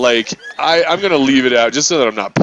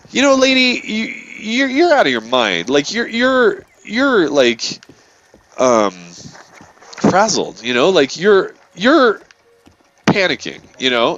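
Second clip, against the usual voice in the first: retold scolding; 3 semitones higher, slower than usual. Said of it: "so I'm like".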